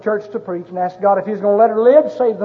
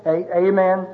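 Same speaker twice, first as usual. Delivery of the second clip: calm fatherly prayer. Retold or imitated. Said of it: "one of those typical fatherly husband prayers".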